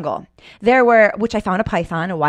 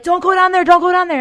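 high, loud mock warning shout; retold warning; 10 semitones higher, 5 dB louder than usual. Friends in Mexico warning her off the path, high mock shout. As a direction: call it out like an anxious guide. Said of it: "And they were like".

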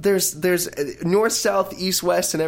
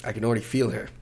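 hushed mock channeling; 5 semitones lower, 6 dB quieter than usual.

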